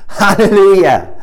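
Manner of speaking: Hallelujah called out high and loud, like a roaring crowd; shouted hallelujah. A narrator's reading. Preacher voicing the heavenly multitude, full shout. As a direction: belt out Hallelujah like thunder.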